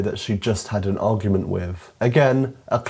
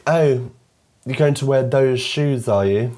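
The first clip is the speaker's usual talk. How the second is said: put-on catty best friend, British accent, higher pitched; 4 semitones higher, 3 dB louder than usual. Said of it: "he's British".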